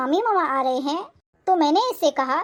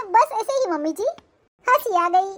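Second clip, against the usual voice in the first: laughing; 2 semitones higher than usual. Acted. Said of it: "तुम हंस क्यों रही हो?".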